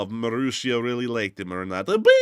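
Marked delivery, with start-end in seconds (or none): 2.0-2.1 short rising "bing"; mock cartoon hit noise; imitated bing. Host imitating the soldier being hit, quick bing.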